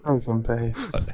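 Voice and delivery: Pelican Paste said the French way, lightly; a quick playful French-accented Pelican Paste; mock French accent. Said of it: "do your best French voice".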